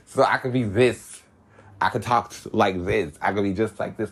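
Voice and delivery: lightly shifted alternate persona voice; a different side of himself. Shown as a demonstration. Podcaster showing listeners a lightly different voice of himself. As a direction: slip slightly into another version of yourself. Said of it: "a whole nother realm of myself".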